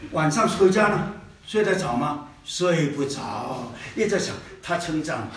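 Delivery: soft, low musing; quiet and dreamy. Retold or imitated. Preacher imagining the sister sleepless with joy, quiet. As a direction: murmur it like lying awake. Cannot sleep after compliment.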